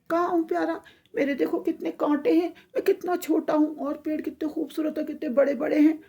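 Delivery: high, whiny mock-crying; tearful complaint. Little tree laments its thorns to the goddess, tearful whine. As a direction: whimper like a child feeling sorry for itself. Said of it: "तो वो और रोने लग गया".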